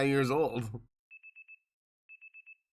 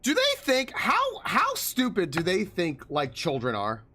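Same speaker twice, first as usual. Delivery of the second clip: incredulous mock outrage; 4 semitones higher than usual. Real, not acted. Mocking the game's villain plot.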